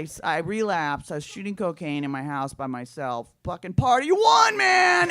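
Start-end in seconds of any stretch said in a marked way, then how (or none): 3.4-5.1 high, drawn-out party holler; loud, hammed-up reveler's shout; mock party cheer. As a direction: whoop it up for a party of one. Mock party cheer about solo bender.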